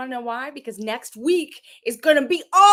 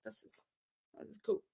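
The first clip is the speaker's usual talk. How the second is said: hushed awe; 4 semitones lower, 20 dB quieter than usual. Retold or imitated. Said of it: "I was like".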